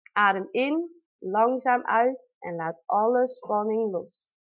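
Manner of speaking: slow, calm breathing cue; calm breathing guide. Shown as a demonstration. Mother guiding her own breathing through a contraction, slow and calm. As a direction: talk yourself slowly through the breath.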